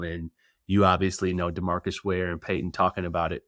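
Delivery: usual speaking voice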